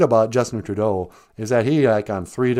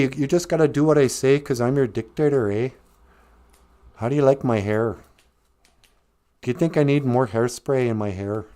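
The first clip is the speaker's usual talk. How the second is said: lightly voiced apologetic Canadian politician; hint of a mock Canadian accent; Justin Trudeau; 3 semitones higher than usual. Dictator politely threatening truckers, light mock Canadian accent. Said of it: "my impersonation of".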